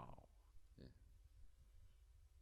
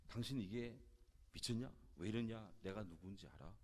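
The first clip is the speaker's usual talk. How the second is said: imitated angry outburst; 3 semitones higher than usual. Businessman berates a waiter over spilled wine, retold angry outburst. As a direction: act out an indignant customer telling someone off. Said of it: "불같이 화를 내면서".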